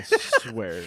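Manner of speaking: high rising squeak on "I swear"; high squeaky promise. Acted. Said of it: "You have to start it like that now".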